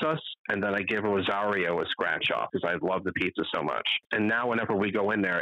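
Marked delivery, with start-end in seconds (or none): none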